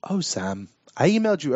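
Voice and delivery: attempted English accent; hobbit-like try at an English accent; Elijah Wood as Frodo. Shown as a demonstration. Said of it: "dude that played Frodo".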